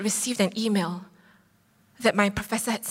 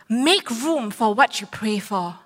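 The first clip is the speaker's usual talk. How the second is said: slow quote; slower than usual. Shown as a demonstration. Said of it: "it was this".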